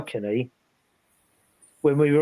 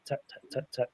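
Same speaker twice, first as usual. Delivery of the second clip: whispered taps; 13 dB quieter than usual. Retold or imitated. Describing knocks heard in the corner, whispered. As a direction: whisper the taps, barely there. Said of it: "very quietly".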